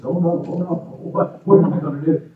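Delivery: high, loud, panicky cries of the lifted men; mock panic as men are hoisted up; panicked men. Men lifted by possessed girl.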